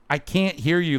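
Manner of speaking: taunting an angry Karen with mock deafness. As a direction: pretend there's a band behind you. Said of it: "and you go".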